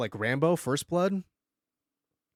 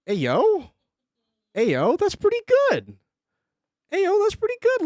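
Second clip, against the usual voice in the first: high, loud hype reaction; hyped shout of praise; excited; 5 dB louder than usual. Real, not acted. Streamer hyping up a viewer's turtle drawing, excitedly.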